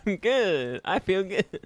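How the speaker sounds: high, loud sing-song I'm good; high goofy I'm good that sounds evil; silly high chirp. Real, not acted. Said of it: "I sound so stupid".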